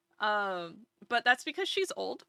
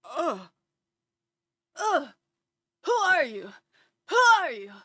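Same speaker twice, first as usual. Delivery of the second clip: higher, louder offended who are you; a snooty cat recoiling; the cat disowning its owners, louder and higher; disgusted cat; 5 semitones higher, 7 dB louder than usual. Retold or imitated. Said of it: "sniff us and be like".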